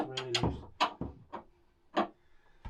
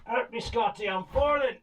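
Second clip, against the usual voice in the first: mock panic; 10 semitones higher than usual. Mock cry while slipping over.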